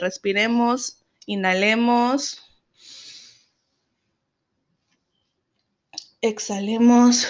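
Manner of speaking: slow, calm breathing cue; slow breathing guide. Real, not acted.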